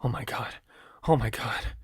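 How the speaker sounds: soft, half-whispered disbelief; murmuring to oneself. A narrator's reading. Killer pacing after shooting three people, murmuring. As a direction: murmur it under your breath. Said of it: "murmuring to myself".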